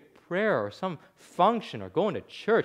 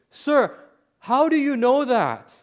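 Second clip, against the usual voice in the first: raised, loud, insistent question; urgent questioning; 10 semitones higher, 8 dB louder, slower than usual. Retold or imitated. Preacher asks the newly forgiven man, urgent questioning. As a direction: press him for the answer, high and forceful.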